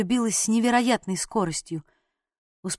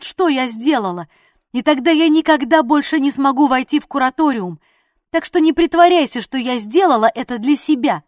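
much higher and louder angry shouting; girl screaming at the deserter she saved; furious yell; 4 semitones higher, 7 dB louder than usual. A narrator's reading. Continued angry tirade at Bale.

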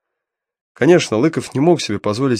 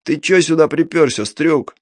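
rough hoarse thug voice, raised; hoarse rasp; 6 semitones higher than usual. Acted. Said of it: "прохрипел сиплым голосом".

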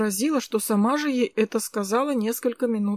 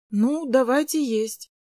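disappointed sigh; 3 semitones higher, 3 dB louder, slower than usual. Acted. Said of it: "вздохнула я несколько разочарованно".

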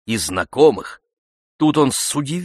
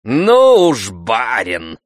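sarcastic; 2 semitones higher, 8 dB louder, much slower than usual. A narrator's reading. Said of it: "заметил язвительно кучер".

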